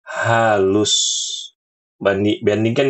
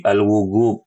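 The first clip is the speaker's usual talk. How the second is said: "al-wugub" with a hard G, Yemeni style; Yemeni G for jim. Shown as a demonstration. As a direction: Yemeni Arabic pronunciation. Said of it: "baca huruf jim dengan G".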